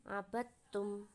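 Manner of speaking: "abattum" slowly, with doubled t; tasydid on second letter. Shown as a demonstration. Presenter shows merged letters, slow doubled t in "abattum". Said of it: "seakan-akan terdapat tasydid pada huruf yang kedua".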